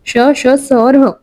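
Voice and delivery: श, श, स और ह spaced out very slowly, each letter set apart; slow letter-by-letter listing. Shown as a demonstration. Teacher repeating the letters slowly so students can write them down. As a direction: drag out the list one letter at a time for students to follow. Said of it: "इसमें कौन से कौन से वर्ण आएंगे".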